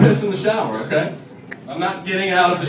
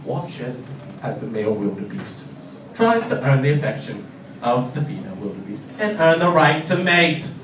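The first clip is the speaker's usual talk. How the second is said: nature documentary narrator; 5 semitones lower, 3 dB quieter than usual. Retold or imitated. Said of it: "It's like a British or Australian guy".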